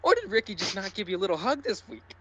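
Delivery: ordinary talk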